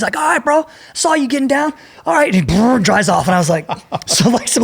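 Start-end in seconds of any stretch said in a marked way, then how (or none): 0.2-2.3 high, laid-back cholo street voice; cholo dude. Retold or imitated. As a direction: call it out like a friendly homie from a lowrider. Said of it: "some cholo dude".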